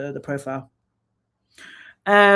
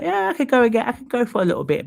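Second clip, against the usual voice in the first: eager inner voice; 6 semitones higher, 3 dB louder, faster than usual. Retold or imitated. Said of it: "I'm like".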